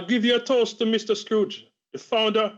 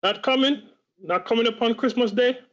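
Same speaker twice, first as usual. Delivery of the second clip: questioning, pitch lifted in disbelief; dismayed disbelief; 3 semitones higher than usual. Acted. Father hearing Martha is not coming, dismayed disbelief. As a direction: ask it as if you can't believe it.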